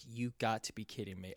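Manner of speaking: quiet, quick deflated mutter; defeated. Retold or imitated. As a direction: say it like all hope just left. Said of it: "was so heartbroken".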